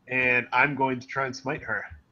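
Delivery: normal talking voice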